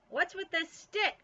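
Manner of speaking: loud, high and slow call; yelled question. A narrator's reading. Bean hollers at Ivy about her stick, high and slow. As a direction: drag the question out at full voice. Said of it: "she yelled".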